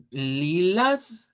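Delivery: "lilas" with a centralized A; Portuguese lilas. Shown as a demonstration. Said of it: "Por eso decimos".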